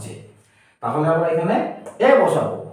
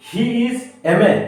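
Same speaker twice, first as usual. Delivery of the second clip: reads the sentence very slowly; slow example read; 3 semitones higher, much slower than usual. Shown as a demonstration. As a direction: spell it out slowly for the class. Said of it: "C নম্বরটি দেখুন". (ধীরে ধীরে উদাহরণ পড়া)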